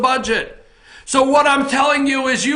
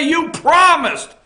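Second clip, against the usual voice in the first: You promised drawn out slowly; slow reproach; slower than usual. Retold or imitated. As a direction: remind him slowly, pointedly. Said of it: "call his office and say".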